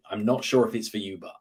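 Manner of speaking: "but." left light and unemphasised; no stress on BUT. Shown as a demonstration. Coach demonstrating an opener to a client, "but." unstressed. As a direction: slide through "but." without leaning on it. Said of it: "No emphasis on the word".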